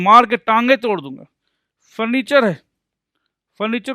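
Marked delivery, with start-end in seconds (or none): 0.0-1.2 loud, playful threat as a catchphrase; mock threat. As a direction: throw out a mock threat loudly. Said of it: "जैसे बोलते हैं". (ज़ोर से नकली धमकी)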